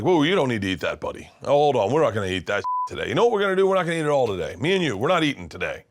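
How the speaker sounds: a bossy dad voice, pushed up on the big lines; mock-scold your son about food, rising to a loud peak; imitating dad. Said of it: "he'll be like".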